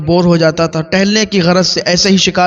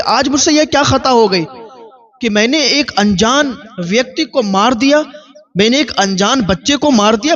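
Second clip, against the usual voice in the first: higher, breathless dismay at his own deed; panicked plea; 5 semitones higher than usual. Acted. Hunter aghast at killing the child, panicked. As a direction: cry out in horror, talking faster near the end. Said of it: "اس کی سانسیں رکنے لگی".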